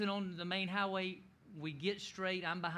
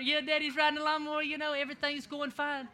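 put-on higher, fast gleeful kid voices; excited kids; 8 semitones higher, 5 dB louder than usual. Kids watching Daddy towed, gleeful higher chatter. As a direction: play the thrilled kids in the van. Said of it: "the kids, they're back there going berserk".

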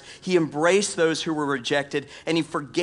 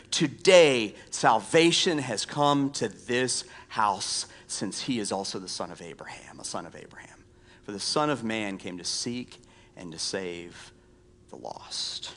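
hushed, reverent Bible reading; scripture reading; 6 semitones lower, 4 dB quieter than usual. Acted. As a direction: let the verse fade gently to near-whisper. Reads Jesus' words from scripture.

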